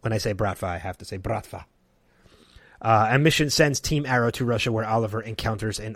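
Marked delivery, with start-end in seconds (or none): 1.0-1.6 Russian accent. Shown as a demonstration. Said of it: "without doing a Russian accent".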